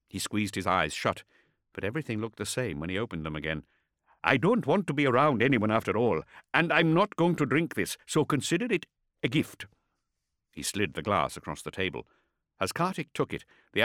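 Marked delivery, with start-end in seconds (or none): 4.2-9.7 agitated. A narrator's reading. Ishak tries to leave.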